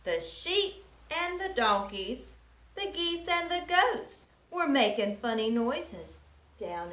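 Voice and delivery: gentle rhythmic read-aloud; storybook reading. A narrator's reading. Teacher reading a picture book to children, gentle storytelling. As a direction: read the rhymes to little ones.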